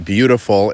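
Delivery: "beautiful" given deliberate emphasis; stress on BEAUTIFUL. Real, not acted. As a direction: lean on the word "beautiful". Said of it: "emphasis on beautiful".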